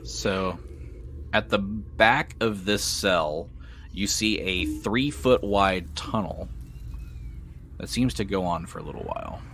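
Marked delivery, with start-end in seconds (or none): 1.3-9.4 game master narration. Acted. Game master to players after the Morlock's defeat, measured narration.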